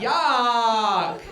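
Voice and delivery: hammed-up disgusted yuck; loud disgusted yuck. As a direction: spit it out in mock revulsion.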